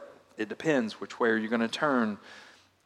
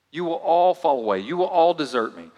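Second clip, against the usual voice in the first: emphatic Jesus; 6 semitones higher, 7 dB louder than usual. Shown as a demonstration. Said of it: "I want you to see what he says to them".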